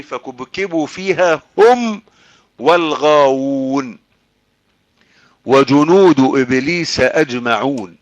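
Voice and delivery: long-held vowels in a measured recital; slow Quran recitation. Acted. Preacher returning to the Poets verse, slow recitation. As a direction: recite slowly, lingering on the verse endings.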